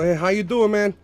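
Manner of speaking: hammed-up loud neighborhood greeting; loud street greeting. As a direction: call out casual like a South Side local. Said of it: "You walk up to somebody in my area and go".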